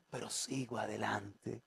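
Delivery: low, hushed, slow perseverance; quiet resolve. Acted. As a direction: drop right down to a soft, slow vow. Quiet resolve, acted quote.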